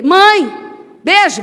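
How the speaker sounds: put-on a small boy shouting to mom on his way to football; child calling out. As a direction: call out cheerfully like a little boy leaving to play.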